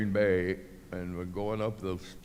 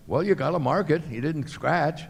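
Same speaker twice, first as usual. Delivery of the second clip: louder, higher heated protest; retold argument; 8 semitones higher, 5 dB louder than usual. Protesting to officials about an unmarked throw, heated. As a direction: push back hard at the official.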